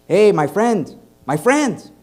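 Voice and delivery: sing-song street hustler calling out; familiar hustler call. Retold or imitated. Hustler calling to a passing tourist, sing-song. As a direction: call out like a pushy street seller. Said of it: "I hear the familiar".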